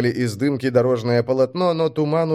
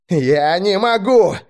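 high, louder, drawn-out cry; barked protest; 7 semitones higher, 5 dB louder, slower than usual. A narrator's reading. Driver refusing the order to speed up, barking. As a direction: bark it back in desperation. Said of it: "рявкнул Грач".

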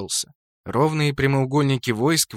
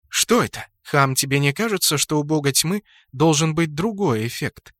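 suspicious drawl. Acted. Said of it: "подозрительно протянула Луна".

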